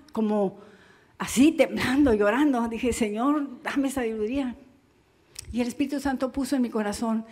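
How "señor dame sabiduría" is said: hushed prayer. Retold or imitated. Pastor retells silent prayer.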